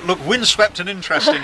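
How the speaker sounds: put-on Scots accent. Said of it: "as Billy Connolly would say".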